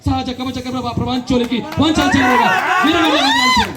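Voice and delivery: booming mythological film declamation in the style of NTR as Duryodhana; NTR-style grandpa. Acted. Grandpa answers grandson with a royal Duryodhana speech, declaiming. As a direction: thunder each line like a king in court. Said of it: "తాత ఎన్టీఆర్ ఏమనాలా?".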